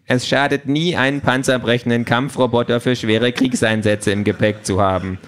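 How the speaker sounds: know-it-all talking gadget; smug gadget voice. Acted. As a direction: savour every word like a proud device. Pink the Quality Pad speaking.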